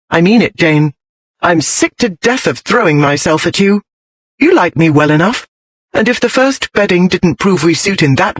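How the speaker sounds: lightly voiced, firm wifely ultimatum; exasperated but controlled; indignant wife.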